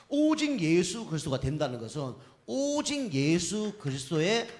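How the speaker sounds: forceful lengthened "오직 예수"; emphatic. Real, not acted. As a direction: drive home "오직 예수" with long, loud vowels. Preacher repeats the key point.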